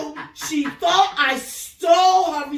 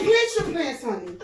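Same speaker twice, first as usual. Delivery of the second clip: sugary dismissal. Retold or imitated. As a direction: brush her off with mock sweetness. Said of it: "I said".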